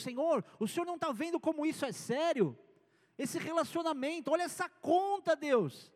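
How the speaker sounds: mock-worried prayer, pitch climbing; pleading complaint. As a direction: plead with God as if he is missing it. Believer complaining to God.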